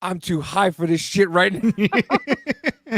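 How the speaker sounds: slow, dazed drawl; stoned. Retold or imitated. Stoned guy muttering to himself at the bedside. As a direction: let it drag out, totally baked.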